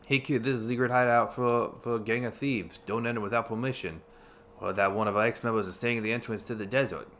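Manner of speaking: put-on reading the sign in a shifting New Yorker accent; New Yorker accent drifting into a lisp; odd accent. Player reading game text aloud in a weird shifting New Yorker accent. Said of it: "I don't know what, what accent that was".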